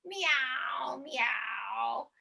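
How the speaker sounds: drawn-out meows, falling away; cat meow. Shown as a demonstration. Leader showing the class how cats meow up the tree. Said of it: "we're gonna meow up the palm tree".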